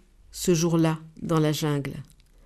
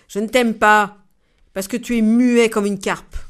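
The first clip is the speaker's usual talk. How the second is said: louder, cross delivery; angry; 2 semitones higher, 5 dB louder than usual. Acted. The angry giraffe looks down at the snake, louder and cross. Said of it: "se mettre en colère".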